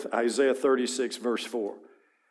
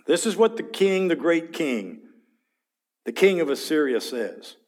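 arrogant herald; 4 semitones higher than usual. Acted. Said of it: "the Assyrians would do".

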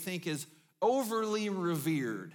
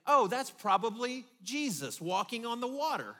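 mock naive guess; 4 semitones higher, 5 dB louder than usual. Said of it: "irrational for them to say".

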